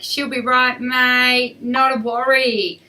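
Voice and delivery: a hint of a relaxed Australian horse; lightly voiced easygoing horse, no worries; laid-back Aussie horse. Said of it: "they're pretty Australian".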